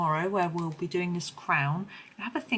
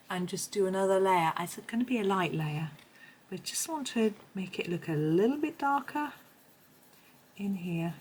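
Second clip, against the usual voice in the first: hoarse, a little rough. Real, not acted. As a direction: speak through a hoarse throat. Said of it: "Sorry for my hoarse voice".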